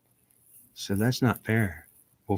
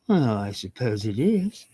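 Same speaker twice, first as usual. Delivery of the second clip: mom's reply; slower than usual. Acted. Mom answers the quoted question.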